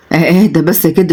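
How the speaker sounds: eager. Acted. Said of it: "وقال بلهفة".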